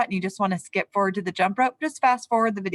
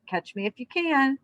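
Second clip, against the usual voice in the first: mock shout; 5 semitones higher than usual. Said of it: "he heard the gingerbread baby shouting".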